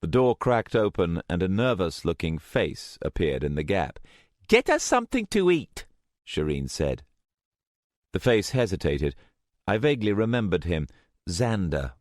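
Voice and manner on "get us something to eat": curt command. A narrator's reading. Shireen ordering servant.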